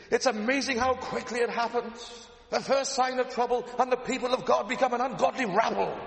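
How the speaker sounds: high Northern Irish preacher voice; Paisley accent. Retold or imitated. Preacher quotes Paisley to his congregation, Northern Irish accent. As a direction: hammer it out in Ulster preaching tones. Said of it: "tempted to do an Ian Paisley accent".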